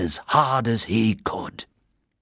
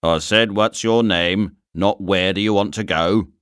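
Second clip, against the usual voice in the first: stern inspector. Acted. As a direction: play a weary station inspector. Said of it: "repeated the inspector".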